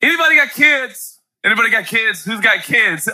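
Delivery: loud call to the room; loud rallying call. Real, not acted. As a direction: shout the question out to the crowd. Preacher calling out to crowd.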